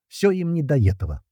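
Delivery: mock-sighing at the lazy guys; theatrical sigh. Томас mock-sighs to the guys, theatrical sigh. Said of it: "театрально вздохнул Томас".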